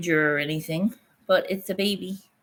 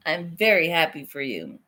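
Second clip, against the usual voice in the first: calmer, lower and sincere; sincere congratulations; 3 semitones lower than usual. Real, not acted. Friend congratulating the pregnant friend again, calm and sincere.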